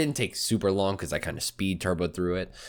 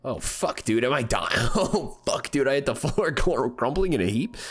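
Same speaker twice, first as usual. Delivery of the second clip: laughing in shock; 4 semitones higher than usual. Real, not acted. Character collapses, player reacts.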